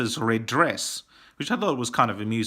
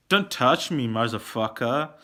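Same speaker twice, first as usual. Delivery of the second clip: mock dramatic. Reviewer quotes Johnny in the fight scene, mock dramatic. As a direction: play the movie threat with mild melodrama. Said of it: "so dramatically".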